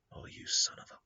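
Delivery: cut-off curse, whispered under the breath; a hissed half-curse, no voice. Retold or imitated. Thwarted death curses the mortal.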